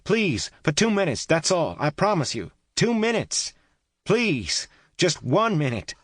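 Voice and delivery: high, loud begging call; pleading call. A narrator's reading. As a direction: beg her to answer, loudly. Kate pleading loudly through wall.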